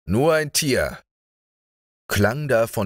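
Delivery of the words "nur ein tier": angry echo. A narrator's reading. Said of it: "eine erzürnte Stimme".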